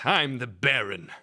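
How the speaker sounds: slow, put-on cat Baron voice; Baron impression. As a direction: introduce yourself slowly as the Baron. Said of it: "can you just do an impression of him".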